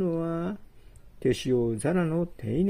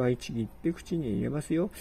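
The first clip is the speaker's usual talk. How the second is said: usual speaking voice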